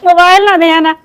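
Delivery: repeating the warning through a laugh; giggling echo of the warning. Real, not acted. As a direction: laugh while saying it again.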